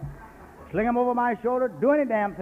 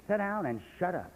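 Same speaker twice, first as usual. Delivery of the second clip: flat, softer retelling of the command; quiet order; 3 semitones lower, 6 dB quieter than usual. Retold or imitated. Old sponsor's order retold, softly and low. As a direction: murmur it down low. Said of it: "He said".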